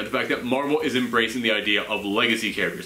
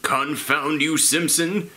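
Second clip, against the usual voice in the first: Mr. Burns voice; slower than usual. Retold or imitated. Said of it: "Mister Burns".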